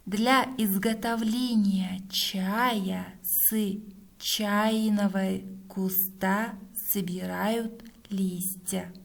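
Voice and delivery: dictating. Shown as a demonstration. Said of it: "Проверяем".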